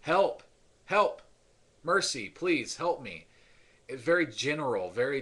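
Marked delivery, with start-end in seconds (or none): 0.0-3.3 loud and much higher, pleading; a beggar crying out loud and high for mercy; desperate cry for help. Retold or imitated. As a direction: shout for help like a blind beggar. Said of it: "his cry was just".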